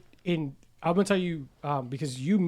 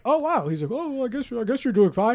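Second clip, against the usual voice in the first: higher, grudging mock voice; grudging doctor; 6 semitones higher than usual. The doctor grudgingly admitting he's doing fine.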